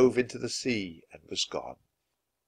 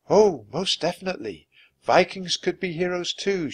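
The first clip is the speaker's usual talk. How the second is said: higher-pitched, assured character voice; lightly voiced enchantress; 8 semitones higher than usual. Morgan assuring Jack about Vikings, emphatic.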